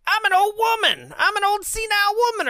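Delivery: very high, loud screech; mock old-woman yell. Mother yells at Trina while being suffocated, mock screech. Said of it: "mother here yells the same thing".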